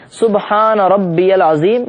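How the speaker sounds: سبحان ربی العظیم slowly, doubled b in ربی clear; deliberate recitation of سبحان ربی العظیم; correct pronunciation. Shown as a demonstration. Teacher showing the bowing glorification slowly and clearly. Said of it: "اس کا تلفظ بھی صحیح ہونا چاہیے".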